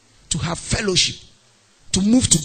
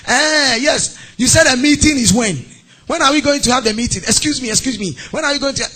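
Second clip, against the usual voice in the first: raised, louder pretend phone voice; put-on business phone call; 4 semitones higher, 3 dB louder than usual. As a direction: act out an officious call. Faked meeting talk on call.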